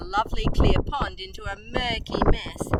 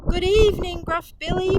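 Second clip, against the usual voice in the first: higher, louder, a bit out of breath; panting; 9 semitones higher, 3 dB louder than usual. A narrator's reading. Mother Pig out of breath from running up the hill. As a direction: greet him while catching your breath. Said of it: "panted Mother Pig".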